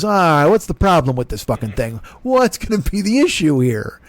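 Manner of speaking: a hint of a whiny worrier; fretful worrier. Ungrateful self griping about a free bike, mock whine. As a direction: whine about problems that aren't there. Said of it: "I'm the one who goes".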